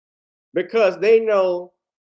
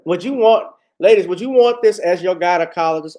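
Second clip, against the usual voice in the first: loud, pointed question to the ladies; loud challenge; 6 dB louder than usual. Real, not acted. Host loudly asks the ladies about Barkley as gynecologist, incredulous. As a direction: call it out to the crowd with mock outrage. Mocking outrage at audience.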